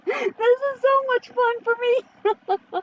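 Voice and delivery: high, slow words through laughter; laughing. Real, not acted. Commentator delighted by the comment fight, laughing. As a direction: savour it while laughing.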